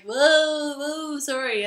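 lightly mimicked flustered sorry; startled apology. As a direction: imitate a guy caught spilling a drink. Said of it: "And the other guy's like".

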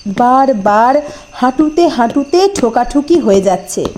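plain reading voice

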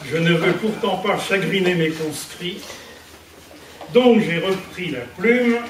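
measured verse, a pause after each line; poem recitation. Acted. Speaker reads her verse to the gathered friends, poem recitation. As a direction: recite homemade rhymes, line by line.

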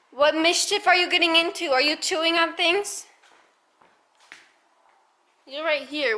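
high, sing-song voice to the pets; pet talk voice. Real, not acted. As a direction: coo at the animals playfully. Talking to pets in baby voice.

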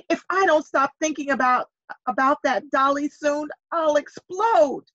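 put-on frustrated boy nearly bursting; building to explode. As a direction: wind up and pop on explode. Jack about to explode.

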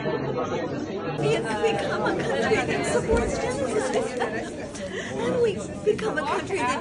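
high, tearful, breaking voice; crying, worn out. Real, not acted. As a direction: cry through the words, drained. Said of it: "I'm crying".

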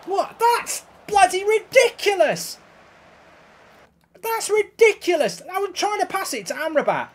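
high, loud outburst of disbelief; outraged disbelief. Real, not acted. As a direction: shout in outrage at an unfair game. Outraged at game conceding a goal.

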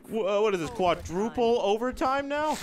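high, loud incredulous question; astonished caster's outburst; amazed disbelief. Real, not acted. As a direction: exclaim it as if you can't believe the score. Amazed at unprecedented overtime.

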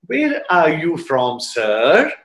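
slow, tender imitation of a loving question. Swami gently asking a new student where he's from, lovingly. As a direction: ask it lovingly, drawing the words out. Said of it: "very lovingly speaks".

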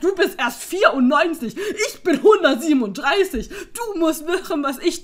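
mock the parents while cracking up; laughing mock parent. Mocking parents voiced, absurd ages.

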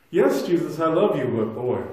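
a loud plea to Jesus, heart breaking open; loud anguished confession. Retold or imitated. Voicing a believer confessing failure.

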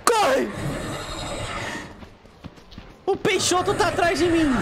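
high panicked yelping; panicked cries, running for your life; being chased. Real, not acted.

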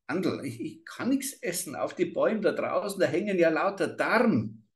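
put-on high, trembling little girl's voice; a scared child near tears; frightened child. A narrator's reading. Girl points at the guts in the trees, terrified.

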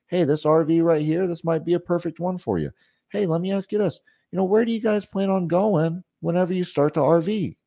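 slow it down for the customer; easygoing, patient sales questions. Shown as a demonstration. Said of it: "I'll slow it down for 'em".

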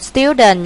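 "Student" stressed on STU; first-syllable stress. Shown as a demonstration. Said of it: "nhấn âm một". ("Student" nhấn âm một)

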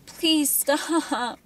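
high, pleading sob; sobbing. A narrator's reading. Girl in pain begging her tormentor, sobbing. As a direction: beg through tears. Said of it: "she sobbed".

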